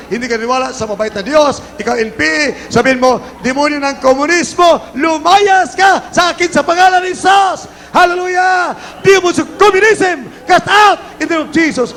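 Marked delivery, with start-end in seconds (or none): 3.4-11.9 high, forceful rebuke of demons; shouted exorcist's command; deliverance preaching. Real, not acted.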